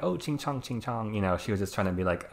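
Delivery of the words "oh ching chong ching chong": mock racist taunt. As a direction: imitate the taunt, clearly distancing. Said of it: "I don't think she meant it in, like, a".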